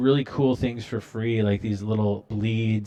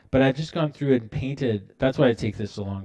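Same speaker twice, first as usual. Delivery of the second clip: ordinary talk, nothing marked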